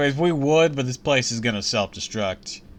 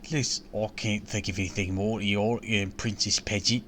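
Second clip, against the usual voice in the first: put-on valley girl; 9 dB quieter than usual. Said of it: "How do I have a Valley Girl accent".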